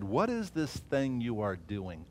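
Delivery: slow, soft sneering question; the enemy quietly scoffing at the builders; mild quiet mockery. Slow, hushed scoff from the mockers at the wall builders. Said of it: "they mocked us and despised us".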